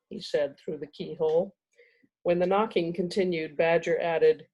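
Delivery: measured storybook reading with dramatic pauses; story narration. A narrator's reading. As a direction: read the chapter aloud, savoring key words. Reads chapter aloud to audience.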